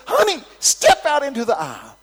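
high, loud holler; calling out. Retold or imitated. Excited preacher summoning a granny into the aisle, calling out loudly. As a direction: shout it over a big crowd.

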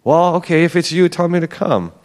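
lightly imitated impulsive reply; blurting out. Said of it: "Peter just kinda blurts it out".

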